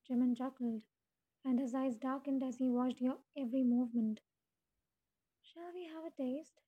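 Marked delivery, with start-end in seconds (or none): 5.4-6.6 soft, higher seductive purr; seductive demon purr. A narrator's reading. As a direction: purr it softly like a tempting demon. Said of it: "he purred".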